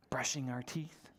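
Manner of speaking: whispered teeth brushing. Shown as a demonstration. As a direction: hush it like bedtime. Whispered example.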